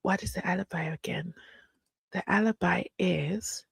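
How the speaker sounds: hushed conspiratorial whisper. Acted. Streamer to chat, secretive whisper. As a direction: lean in and whisper it.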